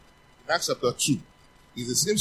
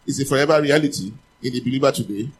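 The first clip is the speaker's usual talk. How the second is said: loud call-and-response line; congregation repeats; 7 dB louder than usual. Shown as a demonstration. Preacher has the church repeat it loudly. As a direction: declare it boldly for the church to echo.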